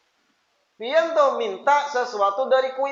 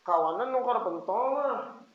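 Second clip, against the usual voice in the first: put-on soft, needy child coaxing mother; tender wheedling request; gentle; 7 dB quieter than usual. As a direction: plead sweetly and quietly, stretching "Ma". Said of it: "Tapi kalau lembut".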